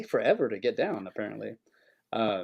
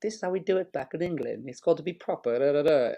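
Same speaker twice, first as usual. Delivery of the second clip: higher-pitched put-on English accent; English lady; 3 semitones higher than usual. Co-host mimicking a fussy English customer, higher mock English accent. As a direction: lecture in a mock proper English voice. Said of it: "she'd always tell me, she's like".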